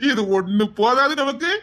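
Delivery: slow words through greedy laughter; gloating laugh. Acted. Schemer tells accomplice it's not enough, laughing greedily.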